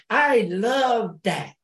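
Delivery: slow mocking echo. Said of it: "Why are y'all talking like that".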